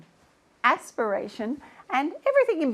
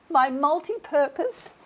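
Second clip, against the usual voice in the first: loud, drawn-out gift announcement; triumphant reveal; 4 dB louder, slower than usual. Acted. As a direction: present it with a grand flourish.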